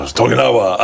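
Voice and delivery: put-on dad hamming up an Asian accent on a subtitle name; a jokey put-on Asian accent, lightly done; teasing his daughter with a mock Asian accent. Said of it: "I'd read it in an Asian accent".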